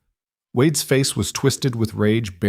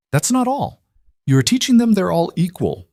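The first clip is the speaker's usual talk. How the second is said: a sudden shout, much higher, climbing in rage; furious outburst; 10 semitones higher than usual. A narrator's reading. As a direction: spit it out at the teacher in a fury. Wade rages at the teacher.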